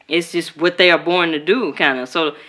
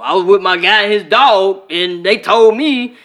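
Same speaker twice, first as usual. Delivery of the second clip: sheepish guy. Retold or imitated. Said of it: "And be like".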